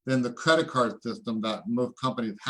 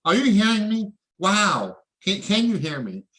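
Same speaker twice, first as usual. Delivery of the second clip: hyped call out; 7 semitones higher, 4 dB louder than usual. Real, not acted. Hyping viewers about gains.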